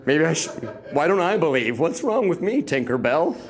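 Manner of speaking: mock self-pity. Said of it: "I'm like".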